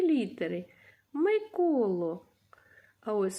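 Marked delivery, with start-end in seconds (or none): 1.1-2.3 slow, clear "Миколо"; teacher repeating a name slowly for pupils. Shown as a demonstration. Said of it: "teacher repeats name slowly".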